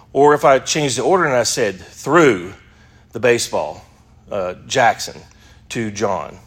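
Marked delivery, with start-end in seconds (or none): 1.8-6.4 Threw said first and pushed; fronted verb. Shown as a demonstration. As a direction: punch Threw, then pause. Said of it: "the emphasis is on he threw it".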